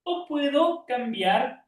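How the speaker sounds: high, slow, drawn-out demonstration; changed tone. Shown as a demonstration. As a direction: lift the pitch and stretch each word. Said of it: "Modificando mi tono de voz".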